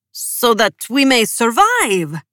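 slow anxious appeal; pleading. A narrator's reading. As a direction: beg to be spared. Chernov's plea.

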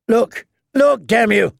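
high, loud, urgent yell; angry shout. Acted. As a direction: bark it at her to make her look. Clegane urging her in battle.

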